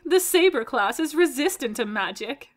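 "magic" left sounding like a question; end sounds like a question. Acted. Actor reading the saber line, ending questioningly. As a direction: let "magic" end unsure, as if asking. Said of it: "sounded like the last part was a question".

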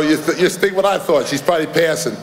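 chuckling through the punchline; laughing. Real, not acted. Laughing at his own joke to the crowd. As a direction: let the laugh spill into the words. Joke about rumored black lady.

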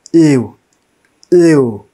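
"U" as a falling "ee-oo" glide; teacher's isolated, emphatic "U"; sound demonstration. Shown as a demonstration. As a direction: sound out "U" like "yoo". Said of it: "When we pronounce university".

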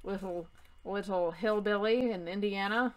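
mock British accent for a snooty company; weird British accent. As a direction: put on a lofty, slightly odd British voice. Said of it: "like, a weird British accent".

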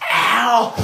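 high yelp of pain; sharp ow. Real, not acted. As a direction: yelp as the hand hits. I just hit my hand.

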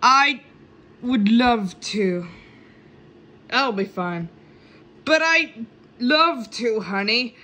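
words broken by hiccups; hiccuping between words. Real, not acted. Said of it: "got the hiccups at the moment".

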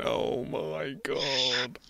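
breathy whisper. Retold or imitated. Walking off embarrassed.

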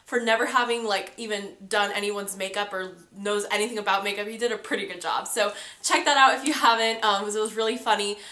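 stuffy, nasal cold voice; talking through a blocked nose. Real, not acted. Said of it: "my, like, nasally sounding voice".

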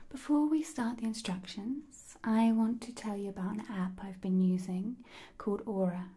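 recommend it in a hushed, even voice; gentle testimonial, lightly emphasised; ASMR ad read. Real, not acted. Reads a sponsor message.

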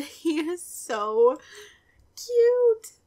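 laughing, then a high loud squeal on cute; squealing gush. Real, not acted. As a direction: let cute burst out in a squeal. Gushing over sim baby.

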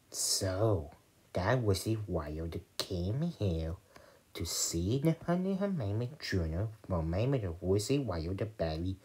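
secret whisper. Acted. Kid narrating the toy story to viewers, hushed whisper. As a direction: lean in and tell it like a secret.

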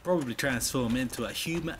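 half-hearted Australian imitation; attempted Australian accent. Mimicking another player, a poor Australian accent. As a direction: softly echo it in weak Australian. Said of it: "I cannot do Australian".

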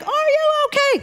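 very high imitated doctor's call; mock urgent yell. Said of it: "the doctor says it again".

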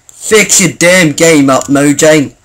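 slow, emphatic complaint; annoyed rant. Pretend. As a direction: scold the game makers word by word. Mock rant at the game maker.

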